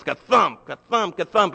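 mock gavel bangs spoken rhythmically; gavel thumps. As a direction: knock out three gavel strikes. Gavel confirming story three times.

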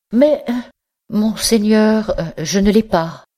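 high, hesitant mock surprise; feigned astonishment. A narrator's reading. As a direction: fake being startled. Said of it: "dit d'un air étonné". (étonnement feint, aigu et hésitant)

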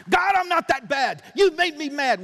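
loud, high whiny protest; indignant mock outburst; defiant protest. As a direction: complain to God like a sulking sinner. Sinner argues with God.

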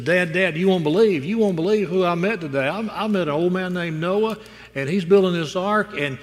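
high, eager rush to tell Dad; hammed-up excited child; excited little boy. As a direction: blurt out the news like a thrilled kid. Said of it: "And the boy's all excited".

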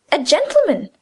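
understated exclaim of surprise; mild exclamation. Acted. Francine, shocked to hear the victim was a gentleman, exclaims. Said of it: "she exclaimed".

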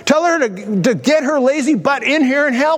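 mock scolding from a fed-up sister; bawling out. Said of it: "she was bawling out Jesus".

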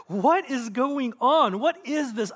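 amazed. Acted. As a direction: act out a baffled crowd asking each other. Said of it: "The people were all amazed".

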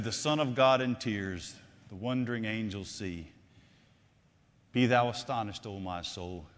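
low, hushed verse recitation; recytacja wiersza. Acted. Quotes a preacher's verse.

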